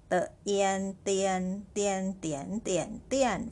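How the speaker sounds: "T, ian" in parts, then joined as "tian"; sound blending. Shown as a demonstration. Teacher builds the syllable tian for learners, sounding out. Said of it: "consonant D for T sound".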